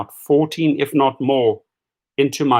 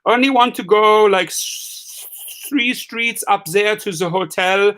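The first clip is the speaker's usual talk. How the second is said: mock German tourist; 4 semitones higher than usual. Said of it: "they said".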